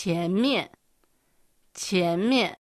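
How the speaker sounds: 前面 as careful Mandarin, qiánmiàn; 中国語の発音. Shown as a demonstration. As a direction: model 前面 clearly for learners, with Mandarin tones. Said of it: "こんな風に発音します". (「前面」を中国語の発音で丁寧に)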